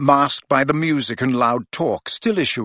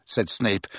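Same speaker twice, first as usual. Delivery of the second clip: ordinary delivery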